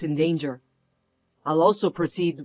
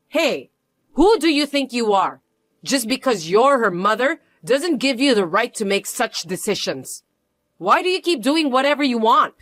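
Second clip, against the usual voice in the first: angry confrontation; 5 semitones higher than usual. Acted. Mother confronting the pushy mother-in-law, angry challenge. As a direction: put her in her place.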